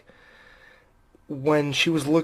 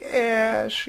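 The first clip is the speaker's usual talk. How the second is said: higher, drawn-out mock plea; imitated crying; 7 semitones higher than usual. Host retelling Linda calling to Ash, imitated crying. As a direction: call the name like a tearful character, lightly acted. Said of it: "and she's crying? She's like".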